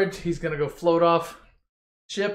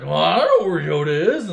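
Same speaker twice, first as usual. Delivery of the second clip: gremlin voice; 5 dB louder than usual. Retold or imitated. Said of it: "the gremlin's like".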